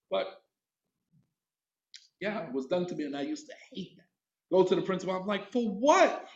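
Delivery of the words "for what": higher-pitched, indignant retort; mock raised voice. Pupil sent to the principal, mildly raised voice. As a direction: protest it, voice lifting slightly. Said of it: "now you're raising your voice".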